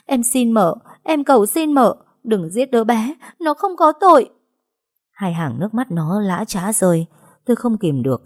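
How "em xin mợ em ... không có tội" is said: high, loud wailing begging; sobbing plea. Acted. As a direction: cry out for mercy through tears. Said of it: "gào lên khóc nức nở van xin". (Trúc khóc nức nở van xin)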